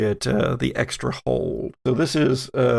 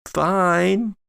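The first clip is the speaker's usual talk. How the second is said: drawn-out, uneasy reassurance; forced fine, horrible grin; 3 semitones higher than usual. Acted. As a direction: say it through a horrible fixed grin. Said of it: "And she grins horribly".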